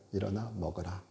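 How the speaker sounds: soft gentle command. Pretend. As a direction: coax the weary gently. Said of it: "말씀하시는 거예요". (부드럽고 조용하게 일으키는 음성)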